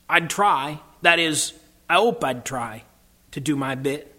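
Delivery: understated humble working man, unhurried; slow, hesitant cabbie. Acted. Cabbie unsure he'd be brave in battle, hesitant. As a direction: answer haltingly, with a touch of dialect. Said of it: "said the cabbie very slowly".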